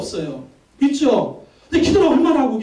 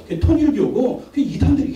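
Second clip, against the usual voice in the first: ordinary talk, nothing marked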